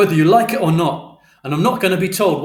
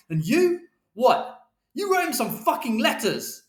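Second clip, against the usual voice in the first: angry tirade; 11 semitones higher than usual. A narrator's reading. Father telling Mother all he did, shouting. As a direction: hammer each grievance home in a high voice. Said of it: "And Father shouted".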